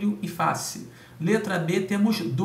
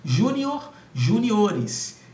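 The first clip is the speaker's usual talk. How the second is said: "Júnior" high and hit on JÚ, then "juniores" with the stress on -NIO-; stressed syllable shown; 4 semitones higher, 4 dB louder, much slower than usual. Shown as a demonstration. Teacher to exam students, showing the stress shift with clear emphasis. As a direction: show how the stress moves in "Júnior". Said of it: "a sílaba tônica mudou de posição".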